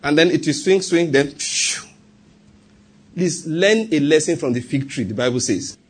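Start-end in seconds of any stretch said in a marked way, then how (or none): 1.3-1.8 long, soft "phew" of air; imitated door whoosh. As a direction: let out a drawn-out whoosh. Imitating an automatic door swinging open.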